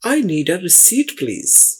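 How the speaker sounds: very slow, each word set apart; slow model sentence. Shown as a demonstration. Teacher modelling a cashier request slowly for students. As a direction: lay it out slowly for beginners. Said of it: "teaching phrase slowly".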